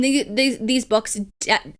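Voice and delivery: tripping over the words; stumbling, repeating the start; stuttering. Real, not acted. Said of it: "I'm stuttering".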